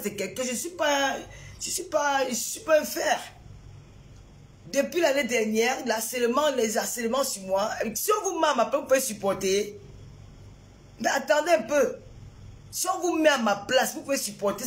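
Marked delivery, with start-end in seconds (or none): 0.4-3.2 upset outburst. Real, not acted. Streamer snapping at viewers who lecture her, real upset. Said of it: "elle est en colère aujourd'hui". 7.9-14.7 high indignant protest; angry protest. Real, not acted. Streamer challenging critics who give advice, indignant. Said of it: "elle est en colère aujourd'hui".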